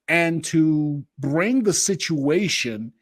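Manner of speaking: slow, halting search for words; losing the thread mid-sentence; brain freeze. Real, not acted. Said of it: "I'm getting a brain freeze".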